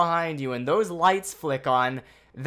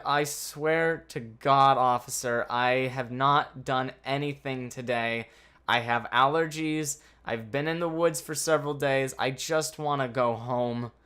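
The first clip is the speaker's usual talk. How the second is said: sappy pleading; 5 semitones lower than usual. Retold or imitated. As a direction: lay it on thick like the poor victim. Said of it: "sappiness into it and ... more victimish".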